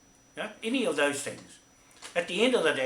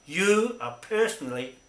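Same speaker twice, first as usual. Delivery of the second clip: stern warning; 3 semitones higher, 5 dB louder than usual. Real, not acted. Addresses the man directly, warning.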